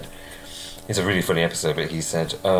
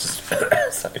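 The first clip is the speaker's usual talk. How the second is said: coughing, words strangled by drink; choking on a drink. Real, not acted. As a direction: splutter through a cough. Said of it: "choking on my drink there".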